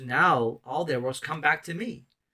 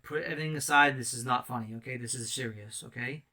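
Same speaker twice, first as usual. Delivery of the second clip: serious fatherly voice; 2 semitones lower, 4 dB quieter than usual. Retold or imitated. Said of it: "spoke to me like the Father spoke".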